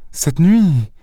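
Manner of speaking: anxious, pitch swelling upward; shuddering objection. A narrator's reading. Young woman afraid of tonight, anxious. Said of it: "objecta la jeune fille avec un frisson".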